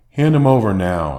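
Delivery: loud firm command; firm demand. Retold or imitated. Father demanding his son back from a stranger, firm and loud. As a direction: demand the baby back, firmly. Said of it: "I ask firmly".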